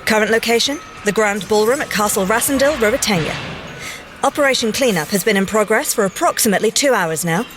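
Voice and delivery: crisp official report voice; formal field report. Acted. Agent logging a mission record, crisp and official. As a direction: dictate it like a mission log.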